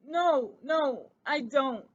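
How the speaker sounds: high, slow unhappy squeak; a guilty little mouse squeaking out his misery; guilty mouse answering his cousin, squeaked high and slow; squeaked unhappily. Acted. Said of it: "he squeaked unhappily".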